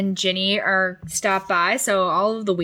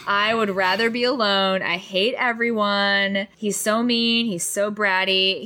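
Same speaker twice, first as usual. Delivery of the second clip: mock emo sulk. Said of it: "total Spider-Man three emo".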